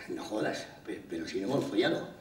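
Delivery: acted shock, voice dropping away; stunned disbelief. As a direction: stumble softly over a baffled objection. Novio atónito ante un embarazo.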